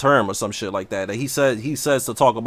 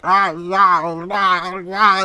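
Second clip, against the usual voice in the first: higher, put-on Irish yeah, yeah; mock Irish accent; 5 semitones higher, much slower than usual. The speaker mimics TMM as a Highlander, mock Irish accent. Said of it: "T M M talk like".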